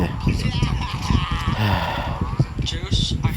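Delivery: long, soft sigh; soft acted sigh before speaking. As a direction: let out a long, drawn-out sigh. Character sighs before thanking.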